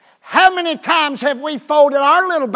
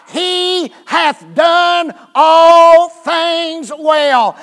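shouting; 4 semitones higher, 5 dB louder, much slower than usual. Retold or imitated. Multitude crying out praise.

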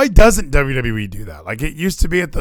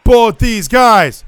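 slow, high drawn-out praise; hype call; 5 semitones higher, 4 dB louder, much slower than usual. Real, not acted. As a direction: stretch it like an announcer. Repeated hype about wrestlers.

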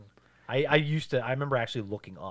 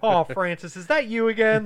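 weary cops; 10 semitones higher, 10 dB louder than usual. Retold or imitated. Bored cops voiced.

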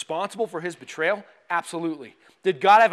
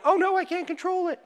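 mock panicked God; 11 semitones higher than usual.

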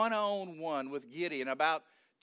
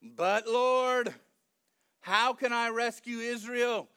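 loud, protesting objection; arguing; 2 semitones higher, 4 dB louder, slower than usual. Acted. Gideon arguing with the Lord about rescuing Israel, protesting. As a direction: push back in acted protest. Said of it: "Gideon's not through arguing with him".

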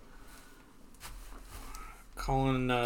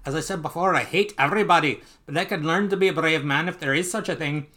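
really bad Scottish accent, higher and louder; Scrooge in a bad accent; 4 semitones higher, 4 dB louder than usual. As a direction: play a grumbling miser with a hammed-up Scottish burr.

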